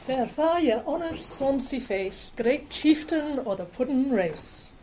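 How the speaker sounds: slow, declaiming Burns recitation; recited verse. Shown as a demonstration. Speaker opens a Burns talk reciting To a Haggis, slow and declaimed. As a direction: give the opening lines like a Burns Night toast. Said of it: "people will be reciting this poem".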